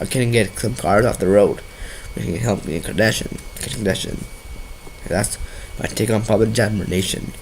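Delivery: stuffy nose from a cold; nasal voice. Real, not acted. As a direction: talk through a blocked nose. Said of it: "really nasal voice, I'm having a bad cold".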